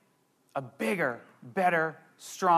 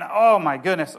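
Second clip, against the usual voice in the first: loud rising oh my goodness, bursting out; real excitement; 3 semitones lower, 6 dB louder than usual. Real, not acted. Pastor overcome while preaching, loud excited exclaim. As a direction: let the excitement spill over. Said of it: "I just get so excited".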